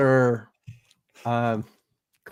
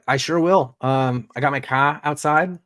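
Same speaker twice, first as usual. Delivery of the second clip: put-on Boston accent. Co-host obliging the host's joke, mock Boston accent. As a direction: try a light Boston accent. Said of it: "the whole thing in a Boston accent".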